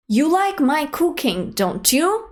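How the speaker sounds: rising tag at the end; tag question tune. Shown as a demonstration. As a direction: let "don't you?" rise like a real question. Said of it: "And then we add the tag".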